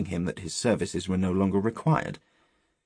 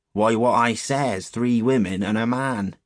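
slow, loud rustic restatement; old countryman firmly standing by his words; insistent old shepherd; 3 semitones higher, 5 dB louder than usual. Acted. Shepherd answering the rude boy, insistent.

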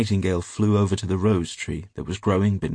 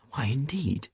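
lightly voiced butterfly, higher pitch; a light, higher-pitched question from a butterfly; 5 semitones higher, 4 dB quieter than usual. A narrator's reading. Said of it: "said a butterfly".

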